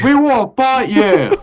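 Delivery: a hint of Australian accent picking a fight; lightly put-on Australian accent; Australian kangaroo accent. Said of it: "Do they have Australian accents".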